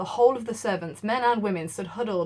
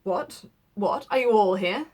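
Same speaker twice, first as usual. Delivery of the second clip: peevish; 3 dB louder, slower than usual. Acted. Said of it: "said the lawyer peevishly".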